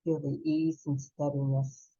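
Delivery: calm, unhurried breath-work guide voice; soothing meditation teacher, leading the class; guided breathing meditation. Acted. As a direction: guide them gently through each breath.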